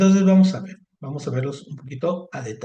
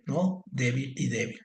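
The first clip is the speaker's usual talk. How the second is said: usual speaking voice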